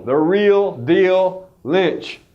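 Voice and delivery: drawn-out, booming fight-night intro; boxing ring announcer. Acted. Ring-announcer intro for top agent.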